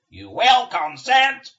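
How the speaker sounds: slow, loud, high buzzing command; buzzing demon voice. Acted. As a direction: drone the order like a swarm queen. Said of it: "The buzzing voice".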